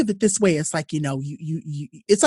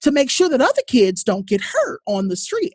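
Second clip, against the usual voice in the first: put-on high, pushy child questions; demanding child; 7 semitones higher, 4 dB louder than usual. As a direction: press the adult to actually act, louder. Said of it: "the kid's looking around and is going".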